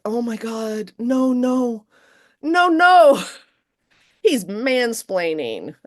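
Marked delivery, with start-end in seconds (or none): 0.0-3.2 rising high, building louder no no; escalating appalled protest; horrified no. Retold or imitated. Reacting to Cole's mansplaining, building up high and loud. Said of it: "I was like".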